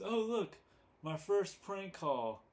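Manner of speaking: hammed-up proud Homer; voicing Homer. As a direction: beam over the kid's first prank. Retelling Homer's proud line.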